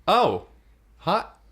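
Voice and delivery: high witch, laughing with a gasp; high cackling witch at the door. Acted. Witch answers door, gasping.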